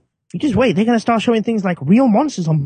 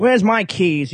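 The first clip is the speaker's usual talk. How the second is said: put-on British accent; much slower than usual. Acts out British parrot leaving.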